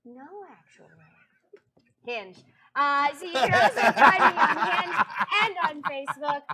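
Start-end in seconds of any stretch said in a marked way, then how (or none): 2.8-6.4 laughing through the words; barely holding back laughter. Real, not acted. Joking speech to followers.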